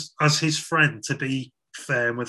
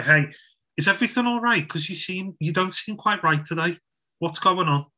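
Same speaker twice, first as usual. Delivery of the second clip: concerned check-in; 3 semitones higher than usual. Acted. Preacher modelling checking on an off-colour mate, gentle concern.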